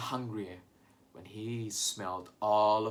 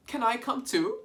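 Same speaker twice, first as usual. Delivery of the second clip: high squeaky voice; 11 semitones higher than usual. Acted. Turkey Lurkey asks to join.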